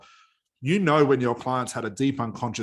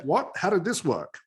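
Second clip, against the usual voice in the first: higher-pitched baffled questioning; acted amazement; 6 semitones higher, slower than usual. Client realizing the problem is gone, acted bafflement. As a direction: imitate a client's astonished realization.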